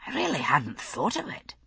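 quiet, wondering tone; softly amazed at the thought; marvelling. A narrator's reading. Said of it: "he marvelled".

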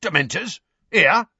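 high, rising disbelief; startled questions rising in pitch; aghast. A narrator's reading. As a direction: ask it in shocked alarm.

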